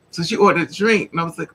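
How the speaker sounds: normal talking voice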